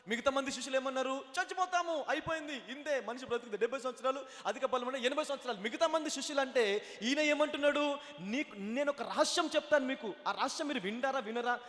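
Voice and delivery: animated sermon delivery, driving on through the lines; urgent pulpit proclamation; full-force preaching. Real, not acted. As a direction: preach it to the whole congregation.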